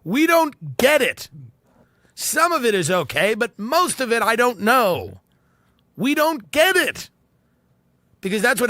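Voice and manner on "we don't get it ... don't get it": high-pitched, exasperated interrogators who just don't understand; slow, incredulous demand from a mock torturer; baffled torturers. Torturers grilling a captive musician about the money, baffled. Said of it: "the torturers are going".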